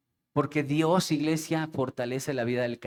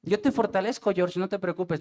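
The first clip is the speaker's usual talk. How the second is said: falsa promesa; 3 semitones higher than usual. Retold or imitated. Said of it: "qué mentira les diría".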